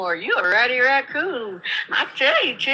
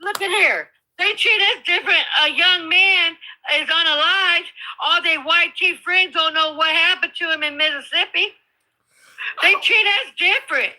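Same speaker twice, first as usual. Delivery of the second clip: higher and heated, pressing the point; angry raised voice; 5 semitones higher than usual. Real, not acted. Caller shouting grievance.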